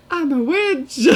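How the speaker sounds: high cackling witch voice. Pretend. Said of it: "Can you make a witch, witch voice sound?".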